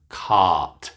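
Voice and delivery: cart with the ah held long and falling; long vowel cart. Shown as a demonstration. Coach contrasts cut with the longer cart.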